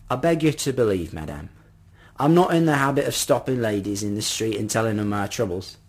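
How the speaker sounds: lightly voiced, courteous old gentleman; earnest appeal with a hint of old man; polite old man. Old man assuring a lady he means well, lightly voiced and earnest.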